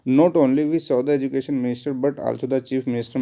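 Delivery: slow, deliberate dictation of a sentence. Shown as a demonstration. Teacher dictating the wrong sentence to students, slowly. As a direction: read it out word by word for the class. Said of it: "not only but also".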